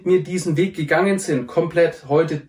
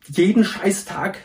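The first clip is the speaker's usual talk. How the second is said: Scheißtag drawn out slowly and pitched higher; stress on Scheißtag; 4 semitones higher, slower than usual. Shown as a demonstration. To students about the daily addiction loop, stress on Scheißtag. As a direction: lean hard and slow into Scheißtag. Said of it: "und Betonung liegt auf Scheißtag".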